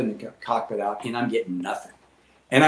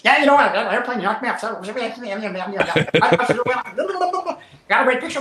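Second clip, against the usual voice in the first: high-pitched laughing babble; gleeful mimicry breaking into laughter; giddy friend; 8 semitones higher, faster than usual. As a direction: imitate a buddy cracking up, pitched way up. Imitating oblivious laughing friend.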